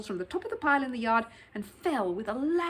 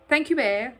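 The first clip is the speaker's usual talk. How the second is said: tactful; 4 semitones higher, 9 dB louder than usual. Acted. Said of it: "replied Sir Huntley tactfully".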